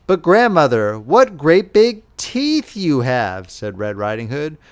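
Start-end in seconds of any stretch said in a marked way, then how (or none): 0.1-3.5 a touch frightened. Acted. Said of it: "who was beginning to get frightened".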